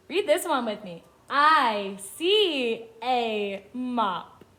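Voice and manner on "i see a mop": very slow, separated words; each word stretched with a gap after; word-by-word reading. Shown as a demonstration. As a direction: read it out slowly for beginners to follow. Children read along.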